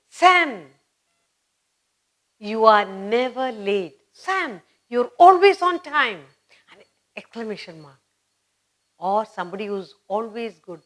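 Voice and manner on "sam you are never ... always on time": praising Sam. Retold or imitated. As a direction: praise Sam warmly and eagerly. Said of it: "You'll say".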